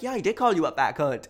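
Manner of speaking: loud, high, brazen confession; defiant admission. Acted. Arguer admitting the insult, loud and defiant. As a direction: own up to it loudly.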